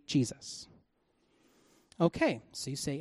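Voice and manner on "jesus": very soft, almost breathed "Jesus"; "Jesus" murmured low and unvoiced, no energy; flat quiet. Shown as a demonstration. Preacher leading the crowd, soft flat Jesus. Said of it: "Can you say".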